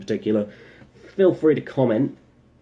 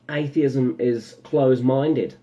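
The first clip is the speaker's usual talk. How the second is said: put-on slow, light New Zealand accent; 3 semitones higher, slower than usual. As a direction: say it slowly in a Kiwi accent. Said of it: "Why did I do it in a New Zealand accent?".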